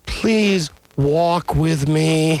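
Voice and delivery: very slow, drawn-out mock plea; pleading wife. Host imitating his wife begging for a walk, mock pleading. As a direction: stretch every word into a begging whine. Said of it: "My wife thinks that".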